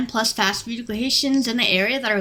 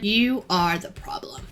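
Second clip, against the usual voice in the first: whispered verdict; slower than usual. Real, not acted. Worker whispering to impatient drive-thru customers. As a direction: lean in and whisper the blame.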